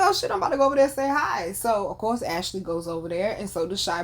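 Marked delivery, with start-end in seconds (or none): 0.0-1.5 fast, higher eager rush; excited. Retold or imitated. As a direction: rush it out, starstruck. Excited to meet star.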